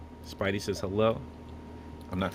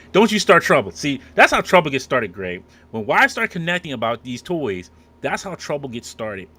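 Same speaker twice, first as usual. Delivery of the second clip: loud, higher-pitched playful telling-off; mock scolding; 5 semitones higher, 9 dB louder than usual. Host warning Greg off getting the wives connected, mock scolding. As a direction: scold a troublemaker in mock alarm.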